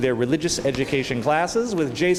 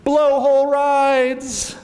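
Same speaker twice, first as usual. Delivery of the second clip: gleeful cheer; 9 semitones higher, 5 dB louder, much slower than usual. Acted. Fish and crabs cheer together.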